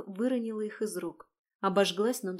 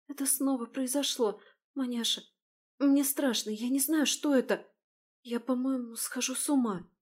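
frightened; 4 semitones higher than usual. Acted. Сестра в страхе, задыхается.

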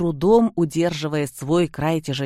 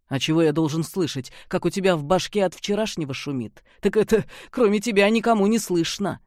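mocking; 3 semitones higher than usual. Antipov mocks hangover.

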